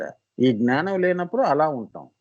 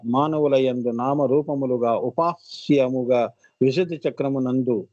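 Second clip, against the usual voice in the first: formal text reading; 4 semitones lower than usual. A narrator's reading. Reads out an explanatory text.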